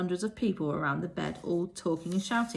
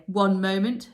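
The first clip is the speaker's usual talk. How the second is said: chilling voice; 8 dB louder, slower than usual. A narrator's reading. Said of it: "a chilling voice".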